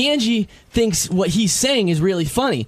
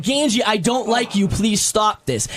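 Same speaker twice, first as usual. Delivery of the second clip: calmly; slower than usual. Retold or imitated.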